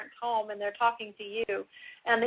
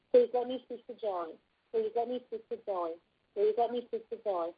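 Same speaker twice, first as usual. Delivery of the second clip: calm, repeated request. Shown as a demonstration. Parent calmly asking ex-partner for the child, calm and even. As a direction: keep it level and unbothered, over and over. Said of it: "in a very calm voice over and over".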